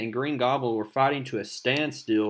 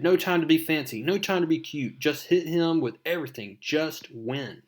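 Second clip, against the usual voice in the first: higher, driven self pep talk; lightly acted hero psyching himself up; urgent Spider-Man; 5 semitones higher than usual. Spider-Man urging himself on mid-fight, higher and urgent. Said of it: "He says".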